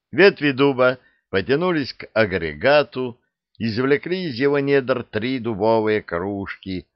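usual speaking voice

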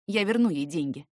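ordinary delivery

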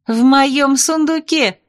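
high, slow, outraged claim; indignant retort. A narrator's reading. Bride claiming the beads were in her chest, outraged. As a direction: insist it was in your chest, high.

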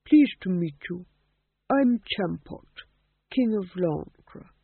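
put-on slow, genial old king voice; proud ancient ghost greeting. Champot voiced.

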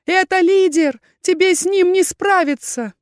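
high, loud, frantic cry; desperate shouted warning. A narrator's reading. Heroine warning Erkhan he cannot win, shouting. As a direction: warn him with all urgency. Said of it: "закричала я".

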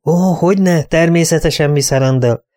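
high, fawning shopkeeper voice; obsequious shopkeeper. Acted. Butcher greeting his best customer, high and fawning.

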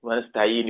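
ونستعين ending on a silent n; pausal stop. Shown as a demonstration. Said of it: "عند الوقف تتحول جميع الحركات".

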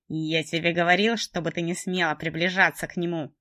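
loud furious man's yell; shouting. Acted. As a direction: yell it at her in rage. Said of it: "кричал он".

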